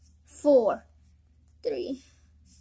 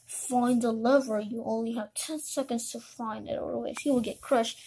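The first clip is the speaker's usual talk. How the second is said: lower, menacing game-master villain; 4 semitones lower, 4 dB louder than usual. Acted. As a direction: taunt the player with the deadline. Villain announces deadly timed game.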